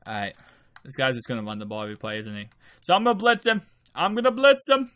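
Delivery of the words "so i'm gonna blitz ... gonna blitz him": higher and louder, building as he commits; fired up, going after the runner; hyped blitz call; excited. Real, not acted. Calling a blitz mid-play.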